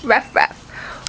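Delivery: soft unvoiced ruff ruff; breathy barking for a toddler; whispered dog bark. Shown as a demonstration. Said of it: "What's the doggy say?".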